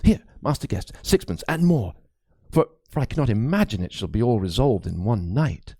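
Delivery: lightly voiced anxious old priest; a worried cleric confiding a ghost story; frightened priest. Priest confides his fears to Crispin, lightly voiced and uneasy. Priest hands over coins.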